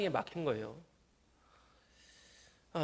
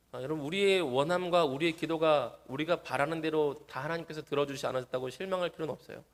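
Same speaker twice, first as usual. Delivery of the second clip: usual speaking voice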